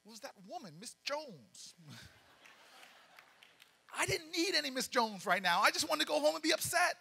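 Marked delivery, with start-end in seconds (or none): 4.0-7.0 louder, fed-up telling; exasperated and fed up. Retold or imitated. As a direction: vent the frustration loudly. Exasperated storytelling, loud.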